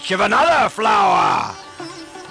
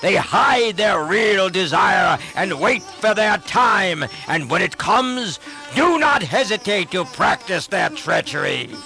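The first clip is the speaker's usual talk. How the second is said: a king's angry tirade, raised; raging shout; 5 semitones higher than usual. Acted. Ravan raging at his brother Vibhishan, angry raised shout. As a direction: let the royal rage spill over. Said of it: "and he shouted".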